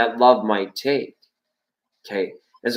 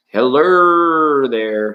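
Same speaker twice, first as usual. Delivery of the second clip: slow, drawn-out, louder serious greeting; mock serious voice; 4 dB louder, much slower than usual. Tarot host greets a chat viewer in a mock serious voice. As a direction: stretch the hello out like a solemn host. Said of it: "serious voice".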